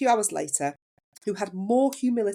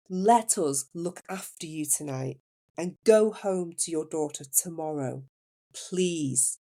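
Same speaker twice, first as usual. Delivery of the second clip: gentle, unhurried plea in imitated Indian accent; soothing Indian accent; slower than usual. Nurse urging a mother to stay overnight, soothing Indian accent. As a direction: coax kindly with an Indian accent. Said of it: "soft and soothing Indian accent".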